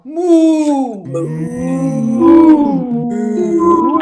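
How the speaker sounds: loud, hammed-up mooing; big comic cow moos. Shown as a demonstration. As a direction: bellow like a cow in a field. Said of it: "your third choice is cow".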